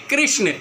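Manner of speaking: कृष्ण with a clear half ष and no vowel; clear example word. Shown as a demonstration. Teacher says the word for students to repeat, clearly. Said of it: "हम बोल रहे हैं".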